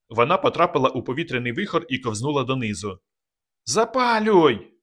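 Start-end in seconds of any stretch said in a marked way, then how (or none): 3.6-4.7 much higher, louder, slow yell; urgent shout. A narrator's reading. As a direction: scream for the burner to be lit. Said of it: "крикнув Казик".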